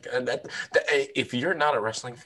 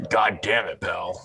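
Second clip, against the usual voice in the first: bad Vince McMahon impression; 5 semitones lower, slower than usual. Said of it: "worst Vince McMahon impression".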